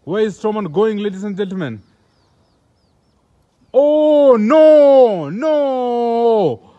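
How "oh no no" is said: sudden high loud oh no; shocked cry. Real, not acted. Commentator crying out as Strowman strikes, high and loud. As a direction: cry out in alarm at the ring.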